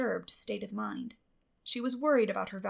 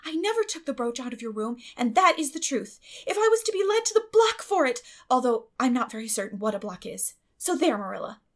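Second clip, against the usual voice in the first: higher and louder, swearing it fervently; earnest vow; 4 semitones higher, 7 dB louder than usual. A narrator's reading. Anne insisting to Marilla, fervent and high. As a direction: swear it as if facing the block.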